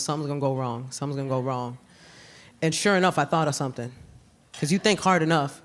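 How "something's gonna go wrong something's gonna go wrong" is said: low, soft anxious murmur; anxious inner voice. Retold or imitated. Thinking during pregnancy: soft anxious murmur. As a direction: worry quietly to yourself. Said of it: "all I kept thinking was".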